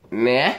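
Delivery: "Nah" dropped low. Shown as a demonstration. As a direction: sink "Nah" deep down. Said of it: "And then you got".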